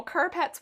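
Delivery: CARPET with a drawn-out "pet"; accented carpet. Shown as a demonstration. Streamer confessing an odd word habit, accented carpet. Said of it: "put an accent on".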